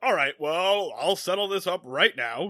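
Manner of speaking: lightly voiced pompous official; a hint of stuffy puppet authority; Sam the Eagle. Rich guy offers to settle up, lightly pompous. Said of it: "he sounds kinda like Sam the Eagle".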